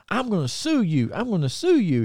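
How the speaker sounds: high-pitched mock kid complaint; repeated threat in a high imitated kid voice. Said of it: "And the kid, only, only thing he said".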